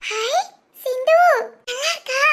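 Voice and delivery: put-on touched child laughing through tears. Moved by gift, laughing crying.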